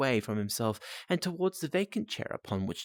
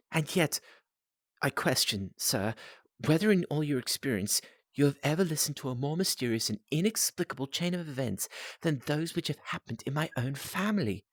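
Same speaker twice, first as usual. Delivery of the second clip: put-on young client's voice; 5 semitones higher than usual.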